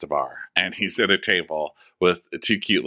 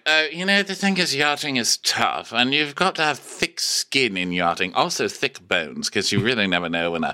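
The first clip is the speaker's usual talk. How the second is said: Jess's voice pitched up, a light parody; high mock chef voice; 3 semitones higher than usual. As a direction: imitate a chef telling a yachting tale in a high voice. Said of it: "Jess is like".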